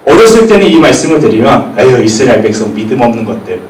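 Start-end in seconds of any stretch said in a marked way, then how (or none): 1.8-3.6 scornful tutting. Retold or imitated. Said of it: "이렇게 생각했는데".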